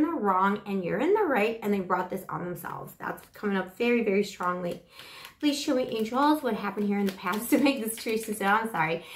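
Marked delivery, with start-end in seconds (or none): none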